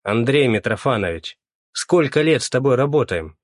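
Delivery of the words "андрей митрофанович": usual speaking voice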